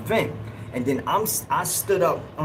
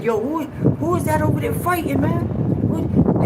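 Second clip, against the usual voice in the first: imitating yelling; 13 semitones higher, 4 dB louder than usual. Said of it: "you hear people yelling over there".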